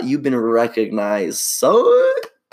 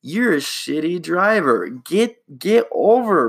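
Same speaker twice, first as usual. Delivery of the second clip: blunt scolding; 8 semitones higher, slower than usual. Retold or imitated. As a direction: scold the bad driver straight. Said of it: "And he goes".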